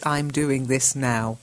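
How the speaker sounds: slow teaching example; slow example sentence. Shown as a demonstration. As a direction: model the sentence slowly. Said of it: "you've got to use this".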